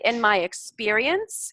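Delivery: In my experience, slowly and clearly; careful model of In my experience; slow model phrase. Shown as a demonstration. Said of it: "usually we say".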